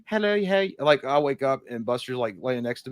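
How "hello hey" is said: put-on high, cooing baby talk. Owner greeting his dog at waking, cooing baby talk. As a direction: coo at the dog like it's an infant. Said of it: "I do a ooey gooey baby voice".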